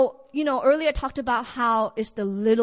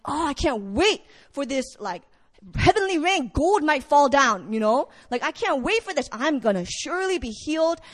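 hyped up. Acted. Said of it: "he's getting hyped up".

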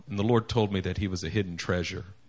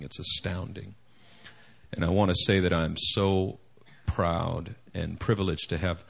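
sexy deep voice. Real, not acted. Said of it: "I'm talking in my sexy voice right now".

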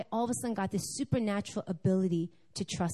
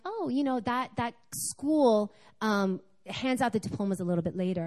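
office lady. Retold or imitated. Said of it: "the lady was like".

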